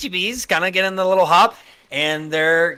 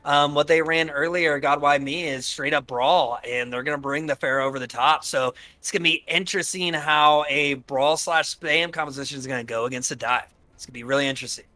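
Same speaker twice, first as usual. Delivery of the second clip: lightly voiced caster impression; a hint of an imitated caster; Demon Breed impression; 3 semitones lower than usual. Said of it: "my best Demon Breed impression".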